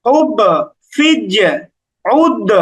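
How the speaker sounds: "হুব", "ফিজ", "উদ" with light echoed endings; qalqalah toward zer. Shown as a demonstration. Teacher models the three light letters, downward qalqalah. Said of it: "এরকম".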